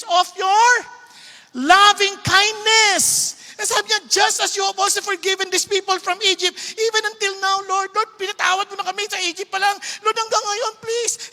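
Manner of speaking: earnest intercession; Moses pleading. Retold or imitated. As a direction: Moses begging forgiveness for his people. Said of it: "sabi ni Moses".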